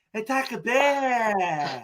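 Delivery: put-on slow Gujarati-accented "Hey, Takbir"; drawn-out Gujarati-accented call. Friends mocking the call, in a Gujarati accent. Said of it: "In a Gujarati voice".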